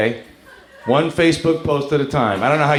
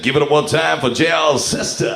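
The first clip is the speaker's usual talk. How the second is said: strip club DJ. Acted. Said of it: "You might as well just said".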